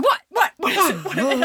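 mock panic. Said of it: "I'm, like, flipping out".

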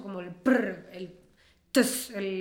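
imitated rolled consonants. Shown as a demonstration. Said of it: "¿cómo se dice esto?".

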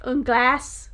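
"un glace" in a clumsy French accent; French word. Shown as a demonstration. Telling her cohost the French for ice cream, butchering it. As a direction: say "un glace" badly, admittedly mangled. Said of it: "I'm saying the pronunciation horrible".

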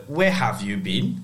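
put-on slow English-accented where have you been; stern English teacher accent, drawn out. Pupil imitates scary English teacher, English accent. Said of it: "She had an English accent".

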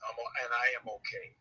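sincere, with weight on I; I am okay said as a steady affirmation; a calm self-affirmation. Shown as a demonstration. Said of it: "That's another one".

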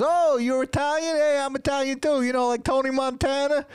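very high, excited mock pickup voice; New York douchebag. Douchebag flirting at a red light, hammed-up eagerness. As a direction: imitate an over-eager nineties New York guy. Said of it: "regular New York fucking nineties douchebags".

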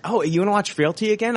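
put-on high quick whiny girlfriend voice; whiny ex impression. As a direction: mimic a whiny ex asking. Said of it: "my ex-girlfriend was like".

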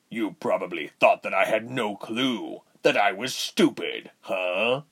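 lightly voiced sneering villain; taunting villain. Voices villain Reuben in story.

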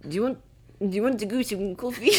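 tentative mock Irish; Irish accent. Shown as a demonstration. One last accent for a friend, Irish accent. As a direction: try asking it in Irish. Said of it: "No, Irish".

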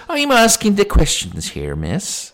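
high, loud put-on copper; indignant policeman voice; bossy policeman. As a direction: pull rank on her, dropping on the last word. Policeman asserts authority.

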